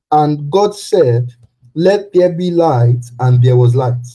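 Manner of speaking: booming biblical narration. Acted. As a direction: read it out like a pulpit proclamation. Preacher reads Genesis aloud.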